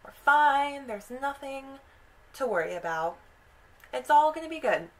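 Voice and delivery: high, lilting reassurance; acted-out boy soothing his sister; reassuring. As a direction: comfort her in a lifted, insistent voice. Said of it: "He kind of reassures her and says".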